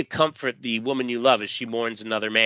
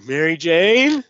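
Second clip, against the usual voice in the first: voiced Beck; 7 semitones higher, 8 dB louder than usual. Beck calls to Mary Jane.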